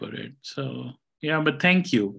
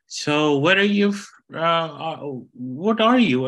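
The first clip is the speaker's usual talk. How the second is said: put-on curious older lady; 5 semitones higher, 3 dB louder than usual. Older lady voiced asking about origin.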